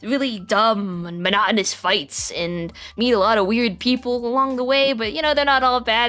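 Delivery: high, eager storytelling voice; bragging friend voice. Acted. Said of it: "the way that Vinny starts talking about his adventures".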